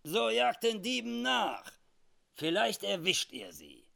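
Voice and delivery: high, loud call; scornful urging. Acted. Cattle thief curtly sends accusers away.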